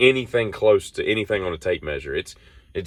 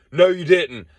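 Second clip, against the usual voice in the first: mock disbelief; 8 semitones higher, 5 dB louder, slower than usual. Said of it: "She's like".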